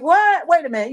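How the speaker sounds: retold disbelief. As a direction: quote yourself reacting in surprise. Retold disbelief at son's accent remark.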